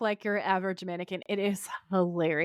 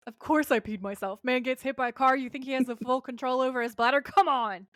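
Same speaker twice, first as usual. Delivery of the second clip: indignant, higher-pitched mock protest; butthurt; 4 semitones higher than usual. Dean defends himself after being hit by a car, butthurt. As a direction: imitate wounded pride, building to an exasperated finish. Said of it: "Dean gets all butthurt and goes".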